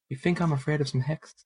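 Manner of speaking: put-on loose, wobbly Irish accent; half-hearted Irish accent, slipping. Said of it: "Are you trying to do an Irish accent?".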